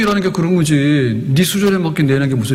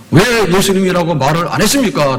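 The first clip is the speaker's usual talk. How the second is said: a touch of indignant higher protest; 5 semitones higher than usual. Acted. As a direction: demand why nobody said so. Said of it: "라고 따지는 거예요". (심판대 앞에서 따지는 염소, 억울하게 항의하는 말투)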